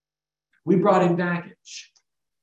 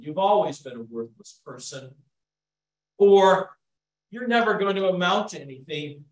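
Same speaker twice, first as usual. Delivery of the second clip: harsh inner voice; 3 dB louder than usual. Acted. Preacher voicing the lies in one's head, mildly condemning. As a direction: recite the accusations with weight. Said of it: "they sound like this".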